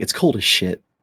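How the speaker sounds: soft whisper, under the breath. Retelling what a character whispers as he crawls in: whispering. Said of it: "he just whispers like".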